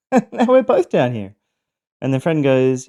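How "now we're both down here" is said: high, loud mock exasperation; exasperated complaint. Trapped man to friend stuck beside him, exasperated complaint. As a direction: complain in a raised, put-on voice.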